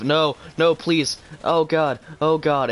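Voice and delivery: panicked pleading. Real, not acted. His plane going down.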